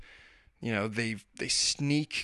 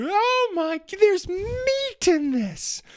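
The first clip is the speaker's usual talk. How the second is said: put-on much higher, slow whiny child voice; disgusted kids; 3 dB louder, much slower than usual. Kids discovering tuna in their mac and cheese: high, slow, whiny disgust. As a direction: stretch it out like a horrified little girl. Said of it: "'Cause they're".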